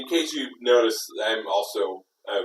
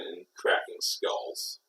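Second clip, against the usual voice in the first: whispering; 6 semitones lower, 9 dB quieter, slower than usual. Acted. Whispered aside about violence.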